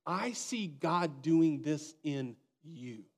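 slow, sincere and earnest; mean every word, slowly; sincere encouragement. Retold or imitated.

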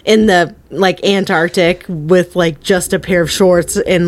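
ordinary delivery

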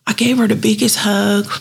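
normal talking voice

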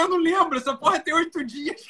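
high, exasperated outburst. Retold or imitated. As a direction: throw up your hands, pitched high. Retelling his outraged reply.

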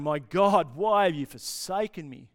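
loud, anguished appeal, acted; crying out. Jesus cries out in his dying, loud and forsaken. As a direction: call out as if abandoned. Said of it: "He cries out in his dying".

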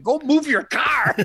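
high-pitched mock holler; retold order, breaking into laughter; exasperated order. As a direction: shoo him off, half laughing. Acts ordering fan to move.

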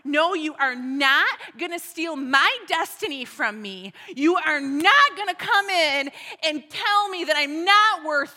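a bold battle cry refusing the enemy's lies; defiant declaration. Acted. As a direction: declare it like you're standing your ground.

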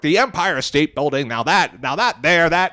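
put-on a light old-timey mid-century American accent. Quoting people of that era, in a light mid-century accent. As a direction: lightly put on, like a newsreel-era New Yorker. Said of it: "That's a good mid-century accent".

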